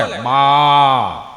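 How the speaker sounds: calf's moo. Retold or imitated. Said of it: "વાછડું બોલે".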